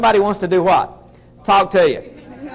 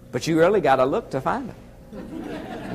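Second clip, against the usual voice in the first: slow, softer comic admission; confiding aside; 3 semitones lower, 5 dB quieter, slower than usual. Real, not acted. Speaker admitting his articles are hard to find, confiding aside. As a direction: ease down into a slow, self-mocking aside.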